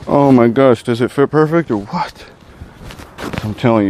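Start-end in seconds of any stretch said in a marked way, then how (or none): 0.1-2.3 thrilled. Real, not acted. Gear fits, thrilled unboxing.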